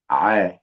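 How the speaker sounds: short, isolated throat sound "ع"; letter-sound drill. Shown as a demonstration. Teacher drills a difficult letter for learners, isolated pharyngeal ع. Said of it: "يلا تاني".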